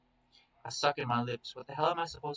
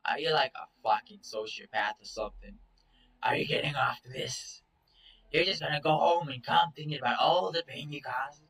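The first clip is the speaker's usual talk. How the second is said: angry; 2 semitones higher than usual. Acted. Confronting Chase, angry.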